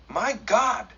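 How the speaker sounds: high, startled cry of fear; sudden terror at the window; frightened gasp. A narrator's reading. Daughter sees war party approaching.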